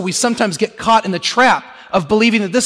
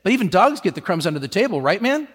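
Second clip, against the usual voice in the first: breezy knowing woman. Retold or imitated. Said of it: "she says".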